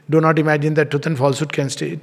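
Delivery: fast, offhand, indifferent read. Shown as a demonstration. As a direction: toss it off as if it hardly matters. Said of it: "Totally indifferent to the whole thing".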